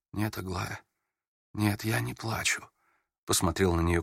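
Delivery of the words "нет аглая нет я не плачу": holding back tears. A narrator's reading. Prince denying tears to Aglaya, near-tearful hush. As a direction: deny crying while almost crying. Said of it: "Вы уж не плачете ли?".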